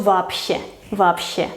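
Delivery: "вообще" with б as voiceless p; devoiced consonant. Shown as a demonstration. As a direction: say "вообще" as vapshe. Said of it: "su pareja es la P".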